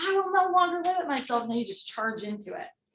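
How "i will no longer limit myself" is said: mock, high-pitched, pumped-up shout. Speaker acts out what everyone yelled before charging in, retelling a yell. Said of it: "And you're yelling like".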